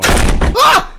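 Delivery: sudden high scream of fright; shrill startled cry. Acted. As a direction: yelp loud and high. Character startled at the door.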